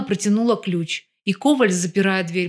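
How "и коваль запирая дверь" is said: ordinary delivery, nothing marked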